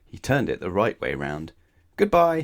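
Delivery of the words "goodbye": muddled Mister Muddle. A narrator's reading. Muddle's mixed-up phone greeting.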